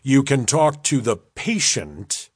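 "patient" picked out with emphasis; stress on "patient". A narrator's reading. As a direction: lean on the word "patient". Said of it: "he paused as he emphasized the word patient".

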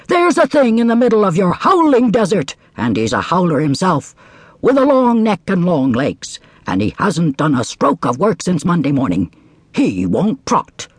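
high, complaining horse. Acted. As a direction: tattle on the camel.

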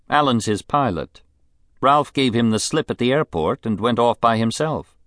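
high, languid society woman; a spoiled, bored rich lady; rich invalid wife. Acted. Mrs Sampson voice.

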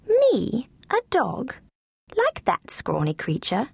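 high, startled squeak of disbelief; disbelieving little dog. Acted. Dog Lulu Bell in high disbelief. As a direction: Lulu Bell balks at being called a dog. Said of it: "Lulu Bell couldn't believe her ears".

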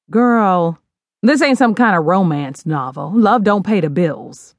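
lightly voiced sassy mom; lecturing mother. Mother lecturing daughter on love, sassy. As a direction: set her straight.

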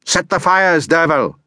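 high, strained witch's screech. A narrator's reading. Morgan ordering the boy to set fires, screeching. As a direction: shriek the orders at him like a witch. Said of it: "she screeched at me".

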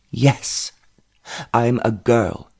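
mildly gruff reply. A narrator's reading. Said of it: "she replied gruffly".

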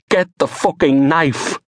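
high, slow, desperate cry; panicked self-urging. Acted. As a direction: force it out through panic. Panicked man fumbling for knife.

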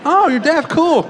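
high, airy and oblivious; mock clueless question. Comic to deaf caller, mock clueless high question. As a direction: play it dumb and breezy. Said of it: "I almost really asked her that".

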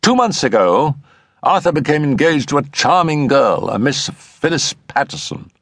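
a high-pitched friend telling the family history; Settle's explanatory voice. Acted.

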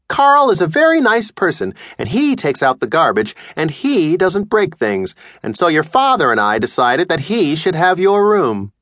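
lightly voiced mother sweetly praising Carl; mother explaining why Carl got the room; doting mom. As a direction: list his virtues pointedly. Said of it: "mother praising the stranger".

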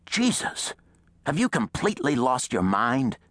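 high, appalled outburst; outrage. A narrator's reading. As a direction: explode in horrified outrage. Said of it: "The outrage in the old man's tone".

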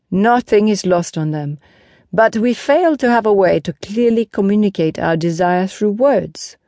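emphatic, lightly voiced knight; a hint of a teacher-knight, insistent; Lancelot, earnest horseman. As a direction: press the point on the listeners. Lancelot addresses the crowd.

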